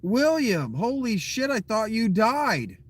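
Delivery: high, pleased disbelief; surprised greeting. Real, not acted. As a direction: greet him like he came back from the dead. Greeting a long-absent friend.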